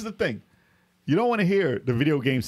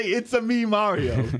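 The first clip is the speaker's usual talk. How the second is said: high-pitched catchphrase, easing down on the name; a light take on the game plumber's greeting; imitating Mario; 6 semitones higher, slower than usual. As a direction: quote it like a cartoon mascot. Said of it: "Because he didn't say".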